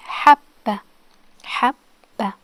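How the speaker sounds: "habba" with the b held before release; doubled b. Shown as a demonstration. Teacher modelling shadda, "habba" with doubled b. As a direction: close firmly on the first b of "habba", pause, then "ba". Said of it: "ba, but doubled".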